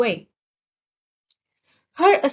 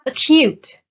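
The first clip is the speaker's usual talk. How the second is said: "Acute" with the second syllable stressed, louder; 2 semitones higher, 7 dB louder than usual. Shown as a demonstration. Teacher announcing the next vocabulary word, second syllable of "Acute" stressed. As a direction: punch the final syllable of "Acute". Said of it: "The stress is on the second syllable".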